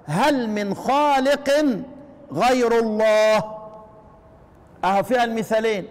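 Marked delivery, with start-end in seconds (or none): 0.0-3.4 slow recited verse with drawn-out words; Quran recitation. Shown as a demonstration. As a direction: chant هل من خالق slowly and clearly. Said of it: "في قول المولى تبارك وتعالى".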